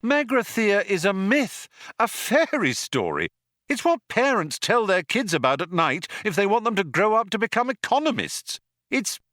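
a lightly voiced sceptical Ford. A narrator's reading. Ford scoffs at Zaphod.

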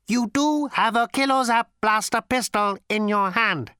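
high, cold, lifeless ancient robot voice; cold cultured robot rasp. A narrator's reading. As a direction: speak like a sleek machine ten billion years old. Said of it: "It had almost a cultured rasp to it".

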